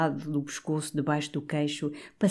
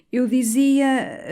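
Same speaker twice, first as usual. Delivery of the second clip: softening; 9 semitones higher, 5 dB louder, much slower than usual. A narrator's reading. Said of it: "atenuou o coadjutor".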